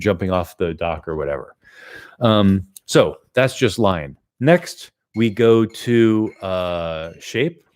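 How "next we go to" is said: ordinary delivery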